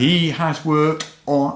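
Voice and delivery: slow drawn-out announcer delivery; boxing ring announcer. Pretend. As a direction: hype it like fight night. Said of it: "I'm still doing the boxing announcer voice".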